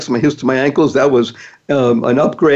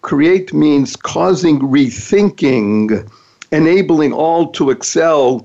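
drawn out, word by word; slow deliberate acronym read; much slower than usual. Shown as a demonstration. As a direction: spell out each word slowly for emphasis. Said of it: "create is a wonderful acronym".

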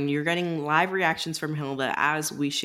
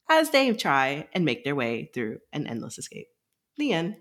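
smooth announcer-style reading; flight attendant voice. Acted. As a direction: read it like cabin announcements. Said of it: "you had a very flight attendant voice".

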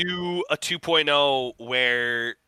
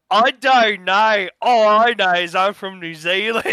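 New Zealand accent; 5 semitones higher, 3 dB louder than usual. Shown as a demonstration. Investor answering the accent sales pitch in a New Zealand accent. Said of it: "that's my accent".

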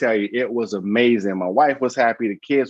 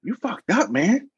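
mock blunt sergeant; 11 semitones higher, slower than usual.

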